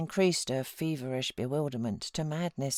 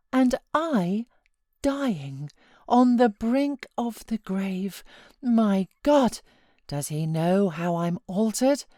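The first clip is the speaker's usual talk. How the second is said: high, loud, slow desperate cry; anguished outburst; 5 semitones higher, 5 dB louder, slower than usual. A narrator's reading. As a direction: plead with fevered despair. Catherine's feverish outburst.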